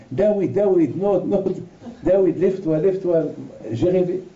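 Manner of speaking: wife rousing husband after her dream; urgent waking. Retold or imitated. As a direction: shake him awake.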